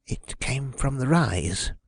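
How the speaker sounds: slow, hushed voice; near whisper. A narrator's reading. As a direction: say it softly and slowly, barely above a whisper. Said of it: "voice barely raised above a whisper".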